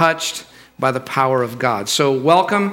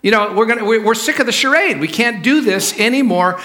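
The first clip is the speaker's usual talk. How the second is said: higher-pitched, fed-up insistence; mock parental exasperation; exasperated father; 6 semitones higher than usual. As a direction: push back at your son, voice raised in pitch. Acted quarrel, exasperated father.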